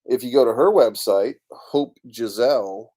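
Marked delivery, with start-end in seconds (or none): 1.5-2.9 slow, careful Hope Giselle; name said slowly. Shown as a demonstration. Giving viewers the website name, slowly. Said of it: "H O P E G I S E L".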